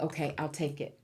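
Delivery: reluctant, held-back acceptance; hesitant acceptance. Retold or imitated. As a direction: say "Okay, I'll take it" as if unsure you deserve it. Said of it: "you have a little trouble saying".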